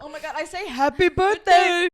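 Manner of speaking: put-on high, loud, slow kid voice; Guppy voice. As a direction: say it like little Guppy. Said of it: "I literally say happy birthday in that voice".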